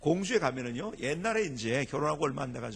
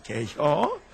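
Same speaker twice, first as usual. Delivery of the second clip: louder, terse Chungcheong question; punchy Chungcheong two-syllable asking; Chungcheong dialect; 3 semitones lower, 5 dB louder, much slower than usual. Shown as a demonstration. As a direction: toss out the short Chungcheong query. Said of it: "충청도 사람만이 알아듣는 말이에요".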